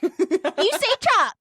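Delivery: high, slow "chalk" said as "chock"; silent L in chalk. Shown as a demonstration. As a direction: insist slowly on "chalk" with no L. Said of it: "the L is silent".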